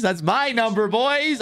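rising hype. Real, not acted. Repeats it, climbing higher.

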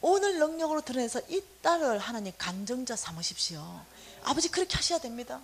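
a touch of tearful earnest prayer; earnest pleading prayer. Retold or imitated. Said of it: "간절해지더라고요".

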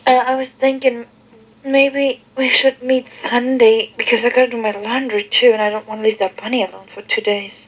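tinny answering machine recording. Real, not acted. Played answering machine tape.

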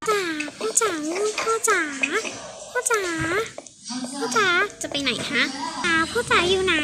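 put-on high child voice calling out for dad; little girl calling. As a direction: call out like a small child looking for dad. Child calling for her father.

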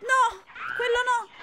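ordinary talk, nothing marked

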